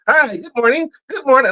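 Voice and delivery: mock the cheery coworkers; chipper greeting. Mocking chipper coworkers at work, sing-song. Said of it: "white people be out there chipper".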